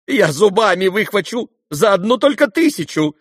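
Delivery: high, loud, keen shout; eager offer. Acted. Ferdyshchenko to the crowd, eagerly offering loudly. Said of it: "предложил было Фердыщенко".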